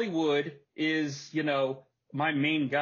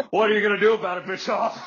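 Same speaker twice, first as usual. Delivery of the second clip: laughing taunt; 3 semitones higher, 7 dB louder, faster than usual. Retold or imitated. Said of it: "he's got this look on his face like".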